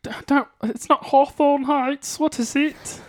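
plummy upper-class frog puppet voice; a frog puppet speaking like English gentry; posh Kermit voice. Pretend. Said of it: "practice my Posh Kermit".

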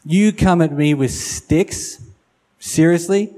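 mock-incredulous, lifting on the last word; incredulous taunt. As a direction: act out mild disbelief at a puny challenger. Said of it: "imagine what he's actually saying there".

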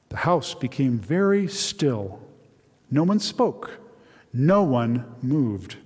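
expressive read-aloud storytelling; dramatic Bible story narration. A narrator's reading. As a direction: read the Joseph passage aloud to the congregation with feeling. Pastor reads a novel excerpt aloud.

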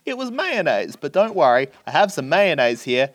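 lightly voiced chuckling wife sharing a funny mistake; Adam Sandler's wife. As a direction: retell her cheery patter with a mock laugh up front. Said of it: "the wife of Adam Sandler comes on".

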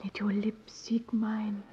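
slow, breathy lover's whisper; seductive whisper. Acted. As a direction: whisper it close, slowly.

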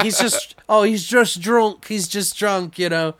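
high, slow mock excuse. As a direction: brush it off sheepishly. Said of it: "they're like".

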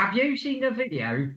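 amateur Cockney impression; Cockney accent. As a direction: read it as a Cockney question. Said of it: "say some Cockney again".

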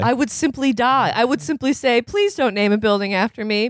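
put-on high, prissy rich girl voice; lightly voiced entitled heiress; mock posh rich girl.

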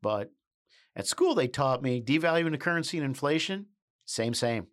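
mock-humble simple country boy; fake bashful aw shucks. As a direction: play it falsely modest and folksy. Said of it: "I'm just a simple country boy".

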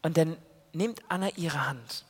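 hushed storyteller whisper; whispering the climax to the children; suspense whisper. A narrator's reading. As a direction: lean in and whisper the big moment. Suspense moment told to children.

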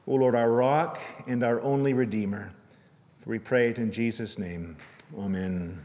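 earnest, unhurried prayer voice; pastoral prayer. Acted. Pastor praying before the sermon, earnest prayer. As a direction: pray aloud for the whole church.

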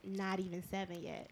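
talking while chewing gum; words round a wad of gum. Real, not acted. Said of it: "Stop chewing gum".

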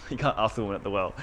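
laughing through the words at own slip; amused laughing. Real, not acted. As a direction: chuckle while quickly correcting yourself.

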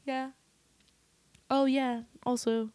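eager agreement. Retold or imitated. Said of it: "tend to be like".

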